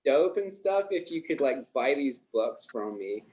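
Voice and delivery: put-on young American salesman accent. Shown as a demonstration. Scot pitching books on request, best American accent. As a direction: do an earnest, gushing American accent. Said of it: "your best American accent".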